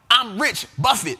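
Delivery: loud punchy rapper-style one-word tags; imitating a rapper. Host mimicking a rapper's old catchphrase lines, loud and punchy. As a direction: snap each line then drop the tag word. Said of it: "When they would say something like that".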